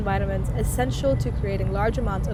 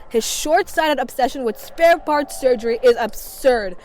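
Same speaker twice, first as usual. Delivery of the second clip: heated rant; 4 dB louder than usual. Acted. Scornful rant about Doctor Monda.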